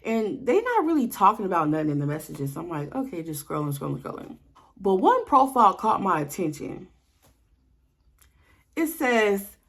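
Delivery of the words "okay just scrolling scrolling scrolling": fading to a whisper; absent-minded scrolling. Retold or imitated. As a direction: mumble it while scrolling, trailing off. Muttering while scrolling messages.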